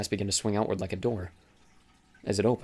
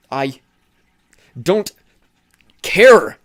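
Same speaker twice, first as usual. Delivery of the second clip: much higher, loud, breaking scream; 8 semitones higher, 14 dB louder, much slower than usual. Acted. Thomas finally cracking at Teresa, screaming. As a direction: scream it, each word climbing higher. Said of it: "he screamed".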